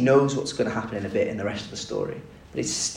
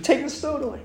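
urgent command. Acted. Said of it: "gone mad with the grief".

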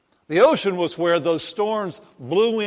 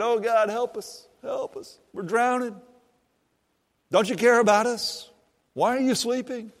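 mock begging; 7 semitones higher than usual. Preacher mocking scared disciples, high whiny pleading. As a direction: play the panicked disciples for laughs. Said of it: "They're begging".

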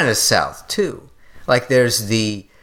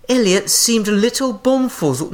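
higher-pitched, unconvincing Southern accent; attempted Southern accent; 7 semitones higher than usual. Shown as a demonstration. Host switching accents on co-host's request, botched Southern accent. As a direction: try a Southern accent and not quite get there.

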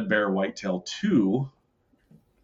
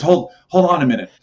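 quick, loud, laughing quote; laughing through it; 6 semitones higher, 8 dB louder, faster than usual. Retold or imitated. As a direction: chuckle out the uncle's line. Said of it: "He goes".

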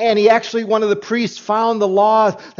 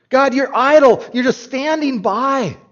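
raised accusing cry of idle; complaining to God; 5 semitones higher than usual. Acted. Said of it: "prophet's complaint voiced".

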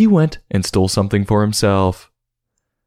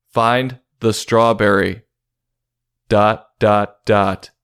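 ominous storyteller voice; 3 semitones higher, much slower than usual. Acted.

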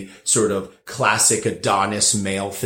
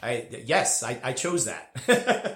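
sheepish; 4 semitones higher, 6 dB quieter, slower than usual. Retold or imitated. Mock-sheepish reply to critics.

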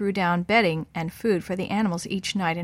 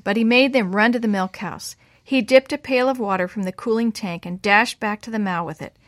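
ordinary delivery, nothing marked

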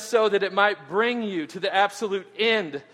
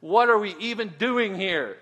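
whining; 3 semitones higher, 3 dB louder than usual. Retold or imitated. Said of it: "He's just, like, whining".

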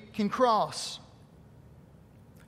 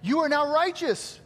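a higher, joyful voice of God declaring; God declaring, warmly higher; 5 semitones higher than usual. Pretend. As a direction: lift the voice and announce it gladly. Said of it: "and goes".

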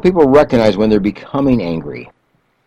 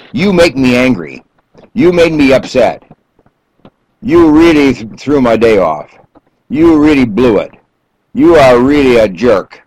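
blaming, pointed and a bit louder; accusatory you statement; 2 semitones higher, 4 dB louder than usual. Shown as a demonstration. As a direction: jab each "You" at the listener. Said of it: "You're speaking in an accusatory s-, manner".

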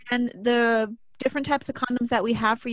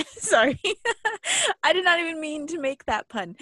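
breaking character giggling; laughing through the apology; 5 semitones higher than usual. Real, not acted. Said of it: "Chris can't stop laughing at me".

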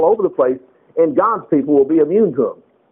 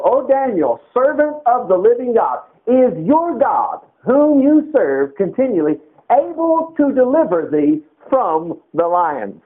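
lamenting king; 5 semitones higher, slower than usual. Retold or imitated. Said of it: "the king spake and said".

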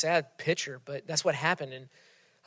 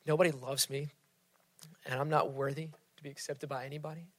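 mock despair; 8 dB quieter, faster than usual. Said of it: "We think".

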